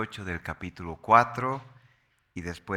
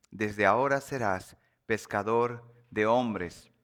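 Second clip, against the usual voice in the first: scripture reading. Acted. Preacher reads of Simón at the feet of Jesús, measured scripture reading. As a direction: read the passage out deliberately, easing off gradually.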